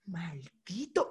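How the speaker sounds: very slow, low, soft curse; retold seething curse. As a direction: draw out the insult under restraint. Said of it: "Y yo".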